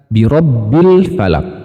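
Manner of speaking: slow birabbil falak with the lam clear. Shown as a demonstration. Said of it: "lam sukunnya dibaca jelas".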